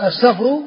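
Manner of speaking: السفر as as-Safru; sukun on the fa. Shown as a demonstration. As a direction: say السفر with no vowel after f. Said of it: "بالسكون في الأسماء".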